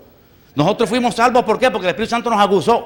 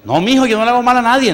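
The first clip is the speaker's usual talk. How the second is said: put-on higher, loud protest of an old woman; grandmother protesting; 5 semitones higher, 4 dB louder than usual. Grandmother protests to grandson, loud insisting. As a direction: insist you've done no harm. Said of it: "grandmother replies".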